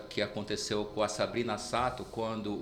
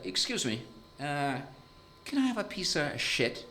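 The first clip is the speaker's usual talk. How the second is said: put-on Italian accent; 4 dB quieter than usual. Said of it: "esse italiano era professor".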